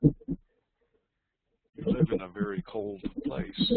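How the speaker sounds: slow, drawn-out words to the whole class; slow address to group. Shown as a demonstration. Teacher addressing the whole class, slow and deliberate. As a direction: lay it out slowly for the room. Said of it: "to this entire group".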